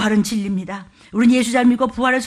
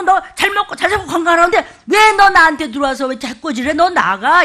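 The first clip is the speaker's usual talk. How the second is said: higher, louder rebuking command; ordering Satan out; 4 semitones higher, 6 dB louder than usual. Shown as a demonstration. Pastor shows how to tell Satan to leave, loud rebuke. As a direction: tell it to get out, firm and loud. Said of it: "이렇게 하라고".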